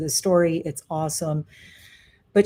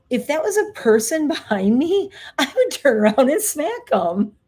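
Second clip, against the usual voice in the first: higher, louder, laughing indignation; mock outrage; 7 semitones higher, 4 dB louder than usual. Speaker to an imagined person behind her, mock outrage. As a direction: playfully threaten an imaginary pest.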